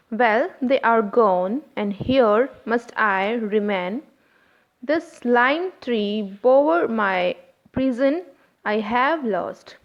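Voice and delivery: slow, stressing they, gone and here; slow iambic reading. Shown as a demonstration. Teacher reading a verse slowly to show its stresses. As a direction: lean on each stressed beat, slowly. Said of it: "the stressed syllable are they, gone, here".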